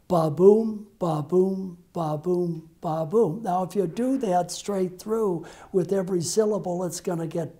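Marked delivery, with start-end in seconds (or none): 0.1-3.4 ba-boom with the weight on boom; iambic beat. Shown as a demonstration. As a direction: stress on BOOM each time, ba unstressed. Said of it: "accenting the second syllable".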